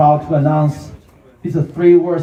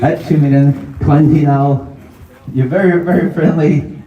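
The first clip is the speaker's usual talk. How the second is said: auctioneer calling. Real, not acted.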